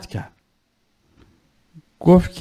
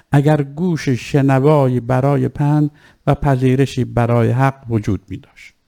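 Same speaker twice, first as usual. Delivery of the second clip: put-on measured, lightly lowered recital of an old text; formal maqtal reading. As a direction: recite the ancient speech with solemn weight. Reading Imam Hussein's words. (خوانش رسمی و آرام مقتل)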